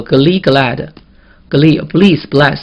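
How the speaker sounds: slow, measured word list; read-along modelling. Shown as a demonstration. Teacher leads students in reading the vocabulary aloud, slow model reading. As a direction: read each word out slowly for repeating. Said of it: "把这几个词跟老师读一遍".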